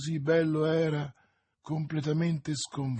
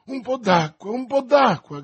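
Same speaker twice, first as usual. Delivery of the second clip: high, loud call for water; urgent shout; 8 semitones higher, 7 dB louder than usual. A narrator's reading. D'Artagnan calling for water for her, urgent shout. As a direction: shout for help, twice over. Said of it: "gridava D'Artagnan".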